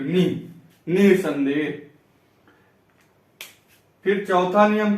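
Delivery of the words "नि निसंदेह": निसंदेह with नि drawn out and weighted; नि held, then the whole निसंदेह; stress on नि. Shown as a demonstration. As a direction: lean slowly on नि in निसंदेह. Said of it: "इस पे भी बल पड़ रहा है".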